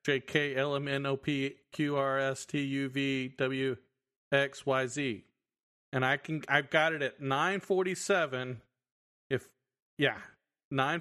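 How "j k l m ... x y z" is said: one long breath, every letter clear; all in one breath. Shown as a demonstration. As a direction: rattle off the alphabet without breathing. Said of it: "in one breath".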